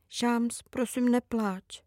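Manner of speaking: gentle plea to a crying sister; soft pleading. Acted. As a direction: softly beg her not to cry. Comforting crying sister at night.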